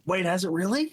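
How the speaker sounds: unvoiced whisper of surprise; whispered disbelief. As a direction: breathe it out in disbelief. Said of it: "you look back and you go".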